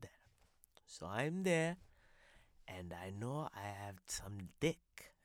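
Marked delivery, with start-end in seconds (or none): 2.7-5.1 hushed secretive whisper. Acted. Guest confiding his stash in a whisper. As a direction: breathe it like a secret. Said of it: "now I sound like this".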